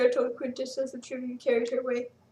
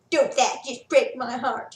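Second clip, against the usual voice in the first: slow, louder mock pity; 6 dB louder, slower than usual. A narrator's reading. Tribune mocking Sarah about her necklace. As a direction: sneer with fake sympathy. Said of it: "he mocked".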